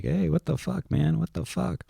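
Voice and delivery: high, incredulous mock protest; imitating kids who should be outraged; mock outrage. Dad imitating his kids reacting to movie swearing, mock outraged. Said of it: "neither one of 'em was like".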